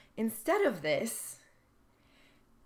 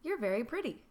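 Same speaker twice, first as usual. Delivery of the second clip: friendly, light and sincere; a warm, harmless compliment; kind compliment; 3 semitones higher, faster than usual. Shown as a demonstration. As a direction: say "You're very pretty" nicely, falling off gently at the end. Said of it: "Here's how it goes".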